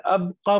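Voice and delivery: अबक़ा with b running directly into qa; without qalqalah. Shown as a demonstration. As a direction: say अबक़ा with no echo after b. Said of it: "पढ़ा तो ठीक नहीं".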